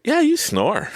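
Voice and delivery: high-pitched, emphatic retold verdict; mock exclamation. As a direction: exclaim it way up high, imitating a friend.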